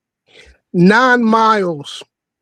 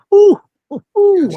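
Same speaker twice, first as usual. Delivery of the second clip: high "woo" whoops; high-pitched appreciative whoops; excited whooping; 10 semitones higher than usual. Real, not acted. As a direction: whoop with relish over a favorite club. Cheering a club he likes.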